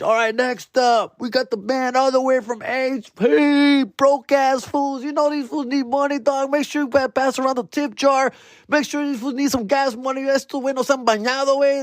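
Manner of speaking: hyped MC. Pretend. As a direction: work the crowd like a cheesy host introducing a band. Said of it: "whatever the bullshit I'm saying".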